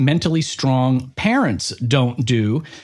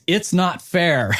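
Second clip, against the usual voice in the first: mock whine; 3 semitones higher, slower than usual. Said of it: "every time she says the phrase".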